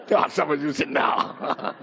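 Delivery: laughing through the words; real laughing. Real, not acted. Pastor teasing congregation about five hours, laughing. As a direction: break up laughing mid-sentence.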